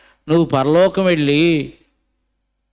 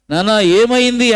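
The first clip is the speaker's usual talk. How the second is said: higher, louder startled cry of a worried mother; alarmed mother; 7 semitones higher, 6 dB louder than usual. Acted. Mother finding her feverish son, alarmed higher louder call.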